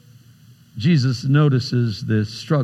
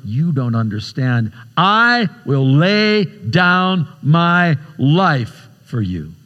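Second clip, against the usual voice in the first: slow, insistent protest; defensive; slower than usual. Acted. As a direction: push back, stretching out each word of the vow. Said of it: "suddenly takes on a defensive tone".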